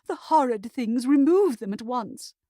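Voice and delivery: loud high hysterical demand; hysterical cry. A narrator's reading. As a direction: shriek it out in disgust. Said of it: "cried Miss Davenport".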